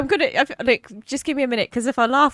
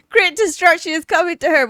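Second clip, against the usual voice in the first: louder, higher mock prophecy; mock doomsday proclamation; 6 semitones higher, 6 dB louder than usual. Reading the fanatic's message to chat, loud mock prophecy. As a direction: proclaim doom while barely holding laughter. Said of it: "somebody's posted".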